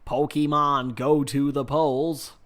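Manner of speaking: slow, lightly imitated campaign line; politician impression. Streamer recalling a funny poll plea, slow understated impression. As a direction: draw it out as a mild politician parody. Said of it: "Do you remember that?".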